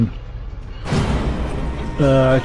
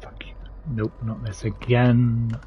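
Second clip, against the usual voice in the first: scared whisper; 7 dB quieter than usual. Real, not acted. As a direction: whisper in dread. Scared whisper in horror game.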